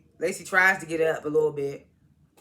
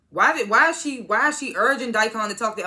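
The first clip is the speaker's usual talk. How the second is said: shocked disbelief; 5 semitones higher, 5 dB louder than usual. Real, not acted. Shocked by Ruth's move.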